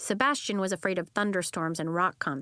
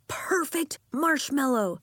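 slow, higher, louder cry; excited shout; 6 semitones higher, 4 dB louder, slower than usual. Acted. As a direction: shout it in triumph. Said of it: "he shouted".

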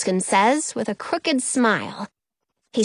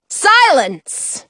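high, loud royal hush; insistent command; 6 semitones higher, 6 dB louder than usual. A narrator's reading. The queen silences her screaming husband, insistent. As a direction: cut through the racket with one word. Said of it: "Queen Paula insists".

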